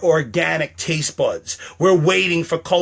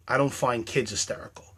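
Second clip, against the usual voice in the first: hushed whisper aside; 3 semitones lower, 7 dB quieter than usual. Real, not acted. Musing to viewers about kids, whispered. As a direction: drop to a whisper.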